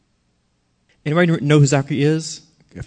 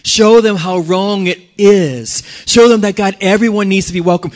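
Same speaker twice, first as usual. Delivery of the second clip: earnest prayer; 2 semitones higher, 4 dB louder than usual. Acted. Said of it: "Instead of saying".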